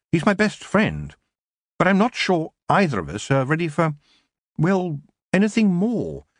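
high, halting confession; hesitant young witch. A narrator's reading. Young witch confides about her best friend, hesitant.

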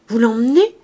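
loud, rising question; eager disbelief. Acted. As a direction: ask in delighted amazement. Innkeeper can hardly believe the offer.

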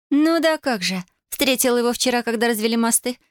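high, teasing mock-dreamy voice; smirking. A narrator's reading. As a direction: tease your sister with a smirk. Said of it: "ухмыльнулась Татьяна".

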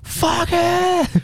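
high mock shout; mock yell. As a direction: throw out a hammy yell. Imitates the video's yelling man. (grito imitado, bem agudo)

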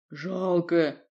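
put-on slow, odd childlike speech; strange simple voice. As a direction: speak like a simple forest creature. Varvara's odd voice.

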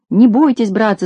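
reassuring call, pitch up; a light call to friends. Acted. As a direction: shout to calm the villagers. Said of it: "закричал Колосок".

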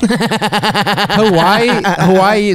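dreamy. Pretend. Dreamy echo of Hawaii.

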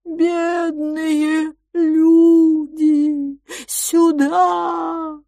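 high, eerie drawn-out wail; wailing call. Acted. The island's master luring lost travellers, a high eerie wail. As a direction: moan it like a lost spirit calling. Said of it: "выл и стенал".

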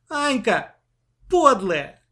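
put-on relieved girl scolding her sister happily; joyful exclaim. A narrator's reading. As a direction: burst out in relief and delight. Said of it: "радостно воскликнула она".

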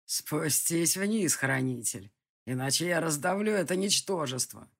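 a distant villain in no hurry; menacing villain. Acted. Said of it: "прозвучало в ответ". (низкий угрожающий голос злодея)

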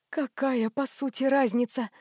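намного тише, почти шёпот; еле слышно выдохнуть; шёпотом. A narrator's reading. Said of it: "прошептала Алла Сергеевна". (мать тихо отвечает сыну, почти шёпотом)

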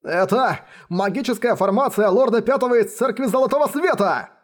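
high, fearful cry; trembling shout. A narrator's reading. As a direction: shout it with a shaking voice. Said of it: "с дрожью в голосе закричали".

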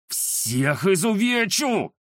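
slow, eerie graveyard voice; sepulchral voice. Acted. Ghost threatens the cats in a sepulchral voice. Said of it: "жутким замогильным голосом".

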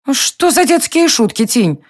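lightly voiced indignant queen; indignant cry. A narrator's reading. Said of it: "возмущённо воскликнула Алиста". (возмущённый возглас королевы, выше)

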